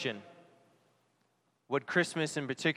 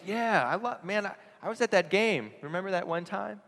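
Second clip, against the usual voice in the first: higher, offhand dad brushing it off; careless dad; 6 semitones higher than usual. Retold or imitated. Careless father answering his son, high and offhand. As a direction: throw it away lightly like a distracted father.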